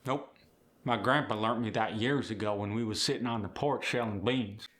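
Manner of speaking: put-on folksy Appalachian accent; Earl. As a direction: reminisce like an Appalachian on the porch. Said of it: "Earl, did you learn that".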